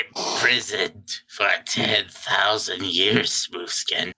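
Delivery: slow, odd voice sinking to a whisper; lightly voiced Illidan; mock Illidan. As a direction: drag it slow and end in a hush.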